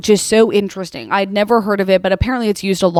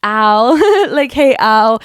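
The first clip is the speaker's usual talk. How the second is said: louder little ow cries; mock pained yelps; 2 semitones higher, 4 dB louder, slower than usual. In the chair with gauze in, mock pained yelps. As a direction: yelp like the gauze stings. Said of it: "I'm feeling like".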